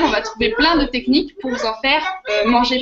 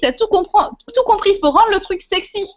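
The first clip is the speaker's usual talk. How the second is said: enjoué; 6 semitones higher than usual. Real, not acted. Playful excited answer to Sylvie.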